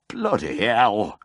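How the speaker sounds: slow, whispered pained curse; moaned in pain. Acted. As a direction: breathe the curse through the pain. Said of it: "he moaned".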